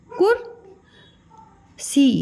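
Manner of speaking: कुर्सी drawn out very slowly; slow syllable demo. Shown as a demonstration. Teacher to young pupils, sounding out कुर्सी slowly. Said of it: "ये क्या है".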